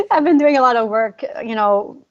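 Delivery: holding back real tears while talking; near tears. Real, not acted. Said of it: "this story kinda gets me".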